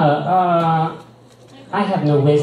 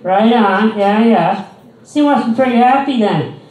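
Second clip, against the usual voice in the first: put-on high, loud condescending old lady; mocking a patronizing old lady at the mall; 6 semitones higher, 4 dB louder than usual. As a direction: talk down to him like a child, sugary and loud. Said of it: "old lady voice continues".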